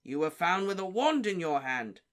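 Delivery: Diggory accusing the elf; barked. Acted. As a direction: bark the accusation. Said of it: "barked Mister Diggory".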